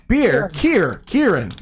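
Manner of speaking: "Kier" rhyming with "beer", then "Kieran"; rhymed with beer. Shown as a demonstration. Teaching a friend the name, rhyming pronunciation. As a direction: build "Kieran" from the sound of "beer", word by word. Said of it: "She said it rhymed with beer".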